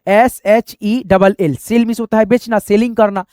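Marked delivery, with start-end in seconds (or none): 0.1-1.6 slow spelling. Shown as a demonstration. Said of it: "देखिए English में लिखते हैं".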